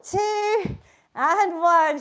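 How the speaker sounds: loud, punchy count called to the class; calling out countdown. Real, not acted. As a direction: call each number out to spur them on.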